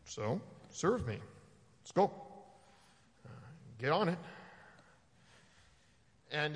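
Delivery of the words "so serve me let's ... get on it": demanding. Retold or imitated. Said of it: "you get people go".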